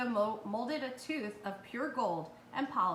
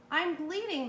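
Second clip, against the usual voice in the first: high yelp, a bit louder, fox voice; 7 semitones higher, 4 dB louder than usual. A narrator's reading. Fox waking from surgery, yelping in pain. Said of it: "the fox yelped".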